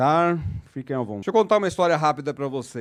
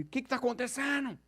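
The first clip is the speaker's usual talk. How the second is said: high, softer outburst of disbelief; imitated indignant client; 8 semitones higher, 9 dB quieter than usual. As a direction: mimic a client suddenly transformed with alarm. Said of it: "O cara transformou". (imitando cliente indignado, voz aguda)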